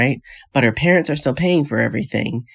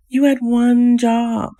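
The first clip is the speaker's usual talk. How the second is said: much higher, slow and louder, stressing had; louder exasperation; 10 semitones higher, 3 dB louder, much slower than usual. Acted. Vlogger repeats it to the couple, louder in disbelief. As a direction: throw up your hands in disbelief.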